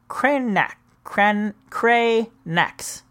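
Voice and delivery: "Cranac's" slowly, syllable by syllable; sounding it out. Shown as a demonstration. Host struggling with a phonetic spelling, "Cranac's" drawn out. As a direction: break "Cranac's" into careful pieces.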